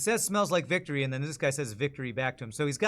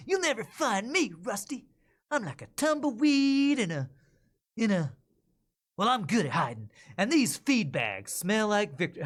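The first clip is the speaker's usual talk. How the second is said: higher pitched nasal bandit voice taunting; a cocky outlaw hiding behind feed bags, voiced higher; nasally bandit; 7 semitones higher, 4 dB louder than usual. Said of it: "nasally, um, bandit".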